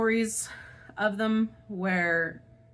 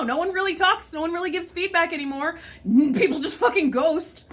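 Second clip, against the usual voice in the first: frustrated yell; 5 semitones higher than usual. Real, not acted. Venting to viewers about job hunting, exasperated yell. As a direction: let it snap into a yell. Continues raised exasperated rant.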